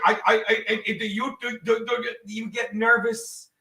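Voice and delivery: imitating a nervous stutter; mock stutter. Co-host mocks the caller's nerves, stuttering imitation. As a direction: stumble over the first words, mockingly. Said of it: "You stutter".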